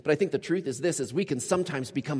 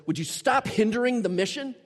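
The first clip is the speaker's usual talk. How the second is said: stern rebuke; 7 semitones higher than usual. Retold or imitated. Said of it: "he looks at you and he goes".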